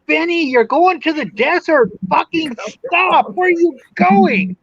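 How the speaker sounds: calling after her, pitch up, half-shouted; retold yelling. Yelling out the window after Benny, mock yell. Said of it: "I'm yelling out my window".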